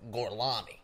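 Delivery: loud hammed-up Italian name; bad Italian accent. Brad Pitt's character giving his fake name, mock Italian accent. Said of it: "he's acting like he's Italian".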